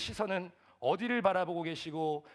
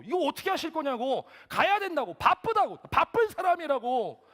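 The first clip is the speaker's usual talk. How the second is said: high, loud pressing complaint; raised, indignant intonation; 11 semitones higher, 9 dB louder than usual. Retold or imitated. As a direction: pitch it up higher and louder with each demand. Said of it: "억양을 더 높이면서". (억양을 한껏 높여 항의하는 말투)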